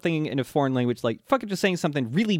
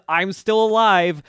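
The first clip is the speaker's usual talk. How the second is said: villain boast; 6 semitones higher, 4 dB louder than usual. Retold or imitated. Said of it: "he says".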